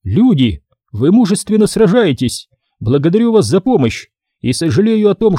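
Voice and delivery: high, inhuman alien voice; eldritch horror. Acted. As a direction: unearthly voice from beyond. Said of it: "вновь зазвучал нечеловеческий голос".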